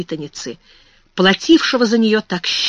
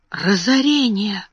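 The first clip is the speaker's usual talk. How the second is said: gasping for breath; slower than usual. Acted. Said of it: "задыхаясь".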